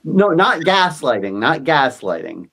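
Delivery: NOT stressed, slow. Shown as a demonstration. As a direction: lean on NOT, slowly. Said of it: "Yas lighting".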